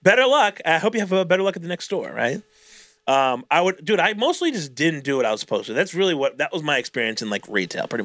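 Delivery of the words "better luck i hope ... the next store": mock cheerful. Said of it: "I'm like".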